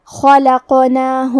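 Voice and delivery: خلقناہ with the qaf bounced, slow; qalqalah on qaf. Shown as a demonstration. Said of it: "حرف القاف کو ہلاتے ہوئے". (خلقناہ میں قاف کا قلقلہ)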